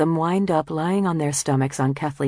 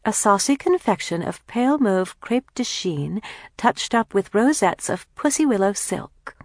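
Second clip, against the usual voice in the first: higher, lilting magazine read-out; reading aloud; 5 semitones higher than usual. A narrator's reading. Kathleen reads a fashion description to her sisters, reading aloud. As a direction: read out fashion copy with relish. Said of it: "Kathleen reads the description".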